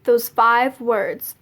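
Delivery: slow, deliberate answer; measured, unhurried imitation of mom; pointed retold reply. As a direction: draw the words out slowly, knowingly.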